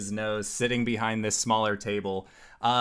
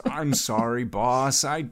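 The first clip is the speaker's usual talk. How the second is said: nervous; 4 semitones higher than usual. Acted. Underling apologizes nervously to boss.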